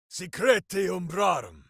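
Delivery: shouted spell words; battle incantation. Acted. Ranger shouting a spell mid-battle. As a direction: call the spell out over the fight.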